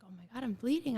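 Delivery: whispered alarm. Retold or imitated. Retelling panic on finding blood.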